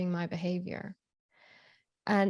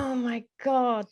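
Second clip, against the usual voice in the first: whispered exclamation; 4 semitones higher, 4 dB louder than usual. Real, not acted. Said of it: "the floodgates opened".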